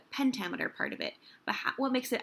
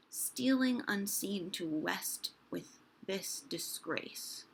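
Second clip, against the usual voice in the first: poem reading. Shown as a demonstration. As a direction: read the sonnet aloud, feeling each beat. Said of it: "So this is Sonnet thirty-three".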